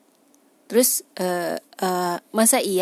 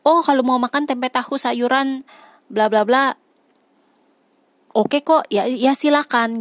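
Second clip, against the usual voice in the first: higher, breezy mock quote of someone saying it's fine; mock permissive voice; 5 semitones higher than usual. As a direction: toss it off lightly, as someone shrugging it off. Mock voice of an imagined person.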